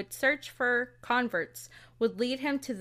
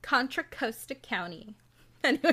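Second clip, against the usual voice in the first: mildly exaggerated Californian Valley Girl accent. Shown as a demonstration. Host jokingly re-saying a county name, light Valley Girl accent. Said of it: "in the Valley Girl accent".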